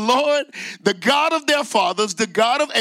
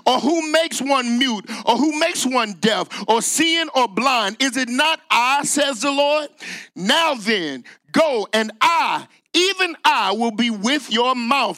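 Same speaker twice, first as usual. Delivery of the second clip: preaching the Lord; 3 semitones higher than usual. Acted. Preaching the Lord's answer.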